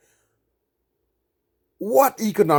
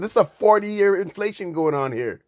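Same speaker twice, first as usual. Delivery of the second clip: getting emotional; 6 semitones higher than usual. Real, not acted. Ranting at billionaires and central banks, emotionally heated. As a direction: voice rising high, heated and worked up. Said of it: "I'm getting emotional".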